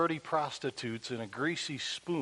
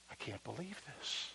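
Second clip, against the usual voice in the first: stunned; 14 dB quieter than usual. Retold or imitated. Stunned woman overwhelmed.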